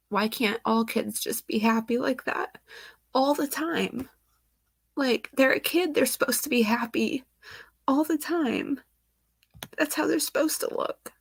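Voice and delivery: pleading voice on the edge of crying; getting emotional. Real, not acted. Vlogger grieving over a dead child's happy photo, tearful and pleading. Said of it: "I never thought I would get this emotional".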